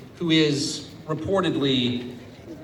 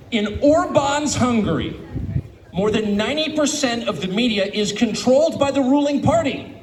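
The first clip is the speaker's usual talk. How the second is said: slow, emphatic quote in a raised voice; slow reading; 4 semitones higher than usual. Real, not acted. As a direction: read it out slowly so every word lands. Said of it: "I want to read this slowly".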